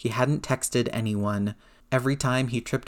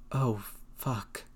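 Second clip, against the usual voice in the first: stunned whisper; 8 dB quieter than usual. A narrator's reading. Aunt realizing, stunned.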